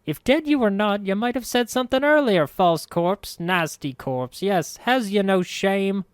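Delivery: high, loud, angry crone scolding; angry hiss. A narrator's reading. Old woman scolding the false corpse, high angry hiss. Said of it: "hissed angrily at the corpse".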